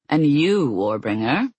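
mock her title. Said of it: "Deimos mocked".

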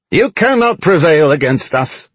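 high-pitched goblin war cry; screaming goblin. A narrator's reading. Goblin driver defies attacking soldiers, high creature scream. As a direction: cry out defiance as a squeaky goblin. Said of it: "one of the goblin drivers screamed".

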